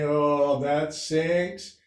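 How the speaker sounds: lightly lifts "sinks" into a rising tone; a playful yoga-teacher lilt, with the tune rising on "sinks"; hint of affected instructor stress, "sinks" ending up; mock yoga-teacher emphasis. Shown as a demonstration. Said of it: "I speak like a yoga instructor with the emphasis on the wrong syllable".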